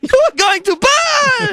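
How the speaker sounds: very high, slow, drawn-out shout; hammed-up wrathful shout. Offended saint damning the host, shouting in mock wrath. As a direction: shriek the threat, stretching it out.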